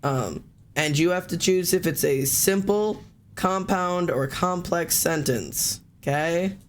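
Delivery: slow, measured teacher explaining the options; lightly put-on classroom teacher. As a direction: spell it out slowly like a teacher. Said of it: "I'm doing my teacher voice".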